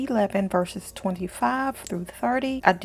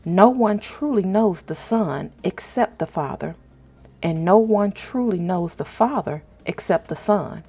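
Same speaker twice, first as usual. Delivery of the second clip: scripture reading. Acted. Host reads Matthew aloud to her viewers, reverent scripture reading. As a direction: read each verse with calm reverence, pausing between lines.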